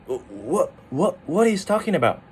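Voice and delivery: acted suspicion, "what" pitched upward; suspicious. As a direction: question it as if doubting him. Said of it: "you're kinda suspicious".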